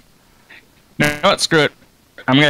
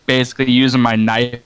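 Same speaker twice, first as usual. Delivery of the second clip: bad connection. Real, not acted. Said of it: "your voice is cutting out a lot".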